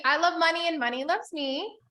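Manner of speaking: leading the group in a chant, rising at the end; call-and-response affirmation. Shown as a demonstration. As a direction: say it so they can repeat. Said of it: "Say it with me".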